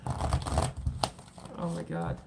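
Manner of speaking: slow, airy, voice gone; breath only, no voice left; voiceless gasp. Real, not acted. Reader's voice giving out, whispered slowly. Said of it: "My voice is running out".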